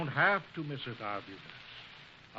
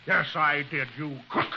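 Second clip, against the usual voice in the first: angry; 7 dB louder than usual. Acted. Cutler punches Chiggers.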